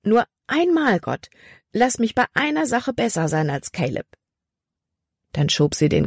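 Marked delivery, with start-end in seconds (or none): 0.0-4.1 pleading prayer. A narrator's reading. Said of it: "Lust zu beten".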